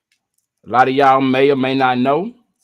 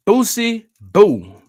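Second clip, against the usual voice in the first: higher, louder, stretched-out call of a name; hyped shout-out; 8 semitones higher, 5 dB louder, slower than usual. Acted. Streamer hypes the chat up over the rapper's news, loud and high. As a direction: sing out "Boosie Boo" like hype news.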